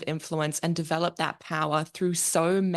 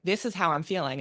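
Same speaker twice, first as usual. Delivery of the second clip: bad American accent. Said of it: "I can't do an American accent".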